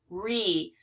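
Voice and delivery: "re" alone, as a held ree; separated syllable. Shown as a demonstration. Teacher finishing the split of story, separated syllable. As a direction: say "re" apart as the end of story. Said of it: "but it is stow".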